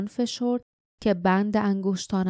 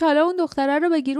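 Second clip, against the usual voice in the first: rough shouted order; 8 semitones higher, 4 dB louder, much faster than usual. A narrator's reading. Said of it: "صدای خشنی فریاد زد".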